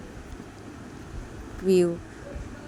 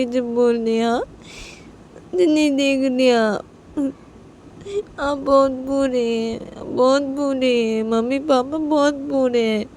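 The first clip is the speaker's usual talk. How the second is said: put-on whiny little girl; 3 semitones higher than usual. Little daughter complains to mother.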